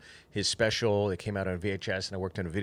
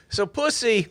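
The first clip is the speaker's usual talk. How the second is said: much higher, laughing blunt opener; 11 semitones higher, 10 dB louder, slower than usual. Retold or imitated. Quoting Martin's first joke, laughing. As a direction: laugh through the crude line. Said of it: "then you just hear".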